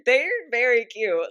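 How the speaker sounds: high, loud, slow gushing; excited gushing. Real, not acted. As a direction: squeal with delight. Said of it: "I'm getting too excited again".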